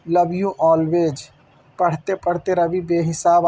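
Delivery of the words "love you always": very slow, drawn-out closing of love; lingering tender farewell. Acted. Wife signs off her letter to Ravi, very slow and tender. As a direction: let each word hang as a goodbye.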